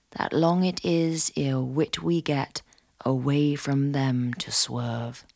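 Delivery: slow, measured poem recital; poem reading. Acted. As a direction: read the old verse slowly. Reads Tudor poem aloud.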